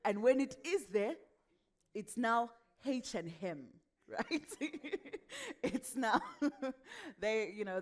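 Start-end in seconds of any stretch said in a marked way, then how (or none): 2.9-3.7 "H and him" with an extra H sounded at the front; added H. Shown as a demonstration. Coach showing how some West Africans add H's, H-heavy. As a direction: put an H where none belongs in "H and him". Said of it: "they add H's where they're not".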